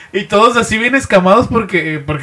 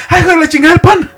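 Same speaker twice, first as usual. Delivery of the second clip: high, louder mock lament over bread; hammed-up falsetto dismay; mock wail; 10 semitones higher, 5 dB louder, faster than usual. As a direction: wail about the bread like a tragedy. Friend imitated mourning bread.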